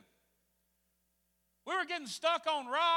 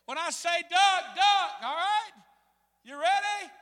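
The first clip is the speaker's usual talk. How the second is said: high, loud captain's warning; brief the crew over the noise, imitating a captain; urgent instructions; 5 semitones higher, 7 dB louder, slower than usual. Captain preparing rafters for the first rapid, loud and urgent.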